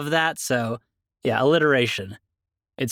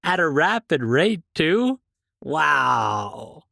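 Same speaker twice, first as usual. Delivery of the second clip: mock amazement; 2 semitones higher, much slower than usual.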